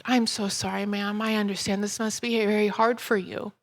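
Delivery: softly placating, understated; retold gentle, sincere apology; calm apology. Speaker to woman screaming over the dead dog, calmly apologetic.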